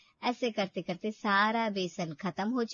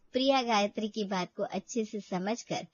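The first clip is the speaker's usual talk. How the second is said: story narration. A narrator's reading. Narrator telling the audience about Priya, calm story voice. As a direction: tell the story evenly to the listener.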